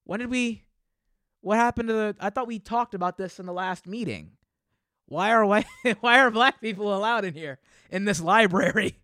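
high, loud mock outrage; outraged white patron. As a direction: squeal it like a shocked snob. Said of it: "if they were just like".

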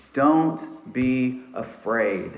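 slow, measured angelic reassurance; spoken, not yelled. Retold or imitated. Angel speaking to frightened ladies at the tomb, slow and unhurried. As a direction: say it very slowly, word by word, without raising the voice. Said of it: "didn't yell at these ladies, but spoke".

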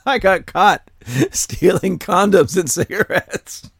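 a caught thief admitting the petty crime; sheepish prisoner. Pretend. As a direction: play the embarrassed prisoner. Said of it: "acted prisoner answering".

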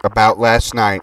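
slow, deliberate dictation; dictating. Acted. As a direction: spell out the message for writing down. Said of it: "Here's the info".

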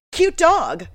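high, loud, put-on fond voice; fond quote. Thief admires a terrier in a put-on cooing voice. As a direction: coo it like a dog lover. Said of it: "And he goes".

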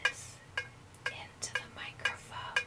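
whispered mimicry of the commercial; imitating her whisper. Host imitating the ad woman, whispered. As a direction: breathe it into the mic like her. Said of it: "she talked like this".

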